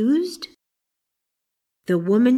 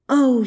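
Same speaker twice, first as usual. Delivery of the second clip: great sigh; 5 semitones higher, 6 dB louder than usual. A narrator's reading. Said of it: "with a great sigh".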